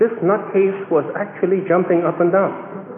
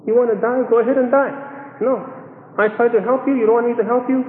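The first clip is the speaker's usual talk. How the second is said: higher-pitched retold irritation; mildly exasperated, raised pitch; annoyed doctor; 5 semitones higher than usual. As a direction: act out a doctor who is fed up. Annoyed doctor rebuffs the patient.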